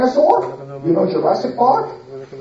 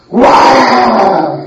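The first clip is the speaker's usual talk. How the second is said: camel roar; 4 semitones higher, 6 dB louder than usual. Acted. Camel roars at him.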